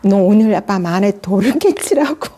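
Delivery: quoting the friend through a laugh; laughing quote. Retold or imitated. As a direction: giggle through the friend's words. (웃으며 친구 말을 전하는)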